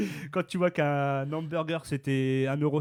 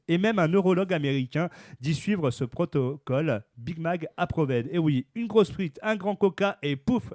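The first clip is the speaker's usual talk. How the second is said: news read. Acted. Reads the news item aloud.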